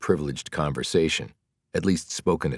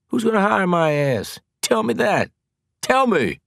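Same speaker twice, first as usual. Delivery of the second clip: higher, louder demanding; angry shout; 6 dB louder than usual. Acted. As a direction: shout the challenge at her.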